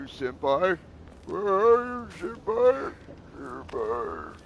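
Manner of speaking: creepy whispering yandere calling senpai; overacted anime dub. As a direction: obsessive sing-song stalker voice. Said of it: "like, yondeer".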